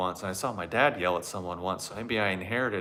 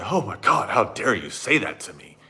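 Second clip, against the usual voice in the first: mock outrage; slower than usual. Mocking himself insulted by the plumber, hammed-up outrage. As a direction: play the insulted tea snob, dragging it out. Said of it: "I would say".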